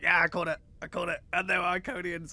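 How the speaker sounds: high-pitched mock triumph; retold excitement. Host retelling his reaction to the reveal, excited. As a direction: re-enact your excited I-told-you-so, voice high. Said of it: "I was very excited about that".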